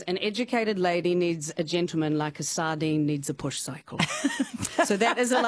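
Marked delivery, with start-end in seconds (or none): 0.0-4.0 proclaiming. Pretend. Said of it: "that says".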